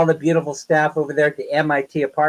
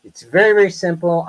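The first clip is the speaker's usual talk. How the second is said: firmer repeat; 3 semitones higher than usual. Retold or imitated. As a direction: press it home the second time. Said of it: "I said flat out".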